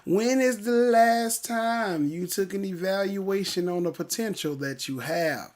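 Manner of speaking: "When is the last time" slow and stretched, then falling; deliberate, drawn-out "last time", easing down to the end; emphatic repeated question. Real, not acted. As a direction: ask it slowly, leaning hard on "last time". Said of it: "let me ask it real, real good".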